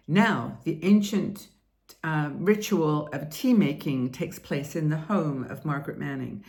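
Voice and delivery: slow, solemn documentary narration; over-dramatic narration. Shown as a demonstration. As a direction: narrate tea like an epic ritual.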